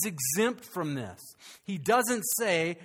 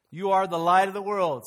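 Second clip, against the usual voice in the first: emphatic proclamation; 6 dB louder than usual. Acted.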